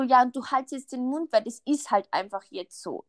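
mildly imitating a snappish mother; nasty, curt. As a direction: put the child down, mock brusque. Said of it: "so in so einer richtigen, unguten Art gesagt".

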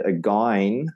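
again with the second vowel off, as "a-gine"; mispronounced again. Retold or imitated. Coach imitating a learner's word, again off-target. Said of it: "if someone came in and they said".

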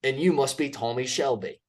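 mock-tough Peaky Blinders line, lightly voiced; Peaky Blinders quote. Quoting Peaky Blinders to his co-host, in a lightly put-on gangster voice. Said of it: "That was good".

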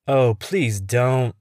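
slow drawn-out mock groan; complaining. Smitty whining at Henry's story, slow complaining drawl. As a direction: drag it out like it's a chore. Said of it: "Smitty complains".

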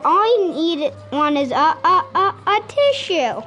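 giggling through the line; wolf's line dissolving into giggles; laughing. Acted. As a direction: crack up mid-stammer. Wolf stammering before a sneeze.

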